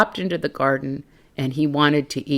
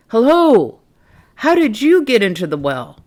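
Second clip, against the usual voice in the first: cheerful duck voice; 7 semitones higher, 4 dB louder than usual. Acted. Duck greets snail.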